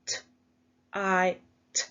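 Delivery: each sound said apart with a pause between. Shown as a demonstration. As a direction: segment "T, I, t" sound by sound. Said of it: "let's pinch our sounds".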